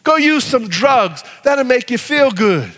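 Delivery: a lightly voiced tempter urging sin; tempter's voice. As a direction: coax like the devil whispering offers. Voicing the enemy's temptations.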